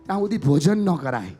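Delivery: put-on child's voice. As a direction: coax mother like a child. Child pleads with mother. (મમ્મીને વિનવતો બાળક, ઉંચા અવાજે)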